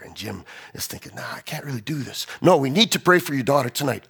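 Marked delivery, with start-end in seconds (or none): 1.2-2.3 softly voiced reluctance; reluctant inner thought. Pastor's reluctant private thought. 2.4-4.1 firm, full-voiced urging; acted insistence. The request repeated insistently.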